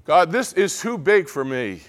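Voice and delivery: loud, high, slow plea; crying out to God. Acted. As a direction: cry out as if overwhelmed, acted. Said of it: "We cry out to God".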